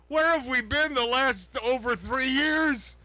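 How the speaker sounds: lightly mimicking De Niro's indignation; mock De Niro voice. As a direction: ham up the outraged actor asking where we've been. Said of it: "He says like this".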